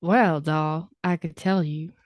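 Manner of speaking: put-on old Hollywood transatlantic accent; glamorous film-star transatlantic accent. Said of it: "I'm gonna have to talk like this".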